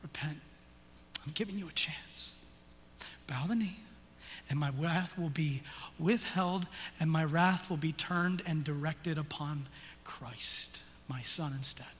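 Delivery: a hint of a tender God speaking; God's gentle plea. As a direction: plead softly as God.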